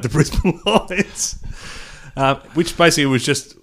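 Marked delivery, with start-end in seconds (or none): 0.0-1.4 slow mock Asian accent. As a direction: drawl it in a put-on Asian accent. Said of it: "two Asian developers talking about".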